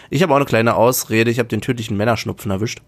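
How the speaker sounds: nasal from a head cold; blocked nose. Real, not acted. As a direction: talk through a stuffed nose. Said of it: "muss ich mich für das Nasale vielleicht ein wenig entschuldigen".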